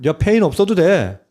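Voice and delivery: hammed-up Satan luring with an easy way; Satan tempting. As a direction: play the tempter brushing off hardship. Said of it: "사탄은 뭐라고 얘기해요".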